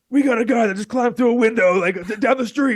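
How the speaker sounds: high, urgent mock dispatcher voice; imitated radio dispatcher; police radio. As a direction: squawk it like a radio call.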